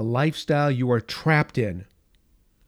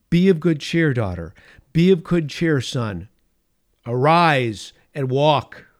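commanding encouragement; 6 dB louder than usual. Acted. Christ to the weary faithful, loud commanding encouragement. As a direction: call them up with force.

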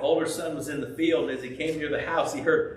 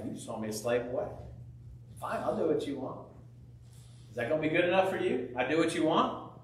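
put-on sulky older brother; 4 dB quieter, faster than usual. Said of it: "is like".

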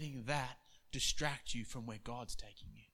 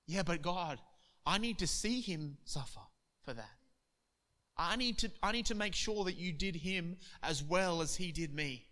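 pleading; 4 semitones higher than usual. Acted. A man pleading with God to see revenge. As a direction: beg God to let him suffer.

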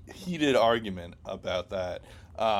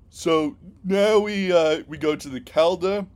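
put-on Boston accent; 8 semitones higher, 8 dB louder than usual. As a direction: say it like a Boston local. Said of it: "I kind of purposely said that in a Boston accent".

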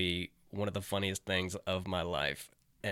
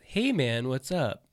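Craig's phone greeting; 4 semitones higher, 3 dB louder, slower than usual. Retold or imitated. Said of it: "the first thing he would say".

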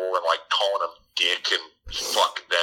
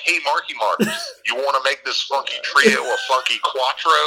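playful Zooey voice; 6 semitones higher, 3 dB louder than usual. Retold or imitated. Zooey flirty pregnancy reveal.

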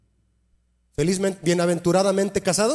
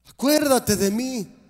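dying thief's plea; 6 semitones higher, slower than usual. Acted. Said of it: "como el ladrón".

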